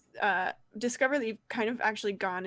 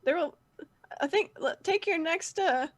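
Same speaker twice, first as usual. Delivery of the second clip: put-on higher-pitched, unsure boy voice; hesitant young guide; 6 semitones higher than usual. Roger guiding the team back, hesitant high voice. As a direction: fumble for directions in a squeaky little voice.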